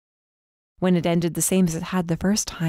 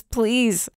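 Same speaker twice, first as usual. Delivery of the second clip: higher, falling "please" said as a worn plea; pleading; 5 semitones higher than usual. Acted. Beaten captive begging Raven, falling "please". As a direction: let "please" drop at the end, begging. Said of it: "I said through my swollen and split lips".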